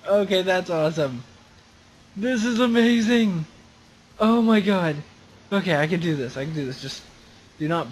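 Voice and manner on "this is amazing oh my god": thrilled exclaim. Real, not acted. Thrilled by the drive.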